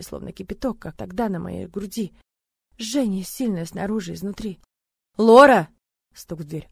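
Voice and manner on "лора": loud worried call, voice rising. Acted. Man calling Lora through the locked door, loud and worried. He calls again.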